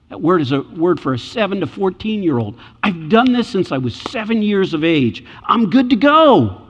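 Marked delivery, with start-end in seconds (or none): 2.8-6.6 put-on a rich young man bragging to Jesus; boastful rich man. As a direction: crow like a man sure he's earned it.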